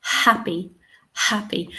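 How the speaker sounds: happy said as "HAP-ee" with a sounded H; audible H, first-syllable stress. Shown as a demonstration. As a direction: stress the start of happy, H clearly heard. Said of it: "we can hear the h".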